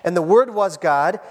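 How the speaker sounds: measured, solemn reading of the passage; scripture reading. Acted. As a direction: read the Bible text aloud to the congregation. Reads scripture passage aloud.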